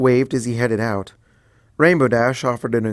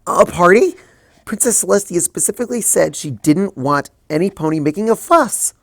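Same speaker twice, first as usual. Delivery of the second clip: higher, louder startled question; alarmed surprise; 7 semitones higher, 5 dB louder than usual. Acted. Twilight hearing of a party, alarmed surprise. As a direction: jolt up in alarm. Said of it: "reared up in surprise".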